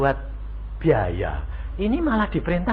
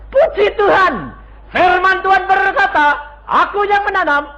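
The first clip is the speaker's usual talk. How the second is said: mock pious; 13 semitones higher, 7 dB louder than usual. Mock pious reply preached.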